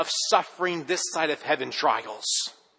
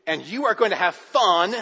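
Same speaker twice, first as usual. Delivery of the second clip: stern dad; 4 semitones higher, 5 dB louder than usual. Retold or imitated. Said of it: "Dad would look at Luke and say".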